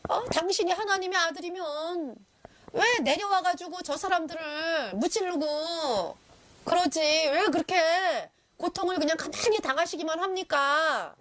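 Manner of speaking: slow mock challenge from a dying thief. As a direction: jeer at him like the bandit on the cross. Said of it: "이러면서 막 따졌잖아요".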